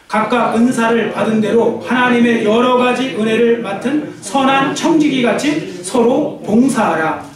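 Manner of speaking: very slow, drawn-out scripture recital; scripture reading. Acted. The preacher leads the church reading the verse, slow recital. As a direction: lead the verse slowly in unison.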